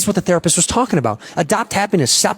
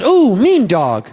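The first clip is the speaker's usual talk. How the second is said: put-on slow drawn-out childlike ooh mean dog; lightly voiced girl calling the dog mean; girl's slow voice; much slower than usual. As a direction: stretch it out, hurt and childlike. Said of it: "And she goes".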